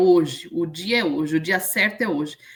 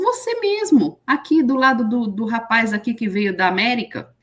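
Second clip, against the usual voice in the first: calling out; 3 semitones higher than usual. Retold or imitated. Preacher calling her out in church.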